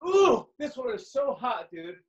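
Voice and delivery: hot sauce burn; talking with a burning mouth; burned tongue. Real, not acted. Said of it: "my tongue is burning right now".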